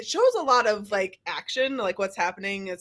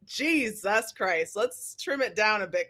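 slow, softer exasperated sigh of a line; exasperated aside; 5 dB quieter than usual. Retold or imitated. Complaining about the long trailer, slow and weary. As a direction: drag it out, fed up and bored. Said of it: "I'm just like".

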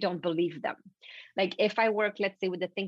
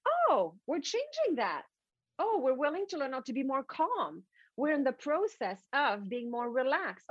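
higher, a touch of an eager secretary; light happy oh, noting it; pleased assistant voice; 5 semitones higher than usual. Retold or imitated. Personal assistant voice.

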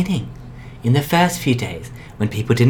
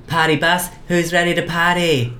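clown voice; 5 semitones higher than usual. Acted. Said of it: "I was doing my clown voice".

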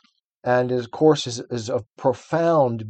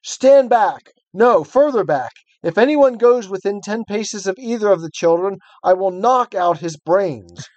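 commanding witch; 5 semitones higher than usual. A narrator's reading. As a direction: bark orders at the children. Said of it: "cried the witch".

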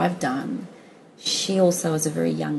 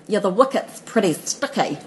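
lightly imitated Kiwi accent, slightly higher; a hint of a Kiwi cricketer's accent; 4 semitones higher than usual. Imitating her old flame on the news, light Kiwi accent. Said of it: "he's got such a Kiwi accent".

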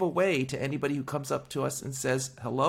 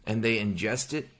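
indignant; 4 semitones higher than usual. Retold or imitated. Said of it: "I'm like".

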